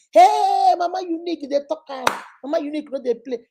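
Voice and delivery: high, loud cheering praise; flattering fans. Retold or imitated. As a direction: hype her up like an admiring follower. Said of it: "Applause of men, cheers of men".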